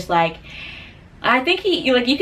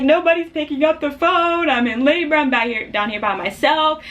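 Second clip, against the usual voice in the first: high-pitched mock wail easing off; plaintive retold distress, pitched up; retold crying; 8 semitones higher than usual. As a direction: imitate a tearful, panicky phone plea. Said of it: "like, I'm crying".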